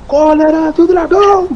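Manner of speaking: high, slow, roaring battle cry; dragon roar. Acted. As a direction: roar the attack name like a furious dragon. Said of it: "até deu o rugido do dragão".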